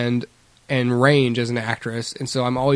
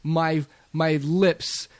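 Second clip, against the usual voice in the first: higher, slow mock American hero with British accent leaking in; British accent pushing through; 5 semitones higher, slower than usual. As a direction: play a Brit straining to keep an American accent. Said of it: "Ignore my accent that's trying to push through".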